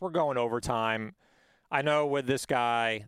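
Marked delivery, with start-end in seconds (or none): 1.7-3.0 put-on slow, leaned-on Jersey accent; mock Jersey guy, drawing it out. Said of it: "I'm doing the Jersey accent".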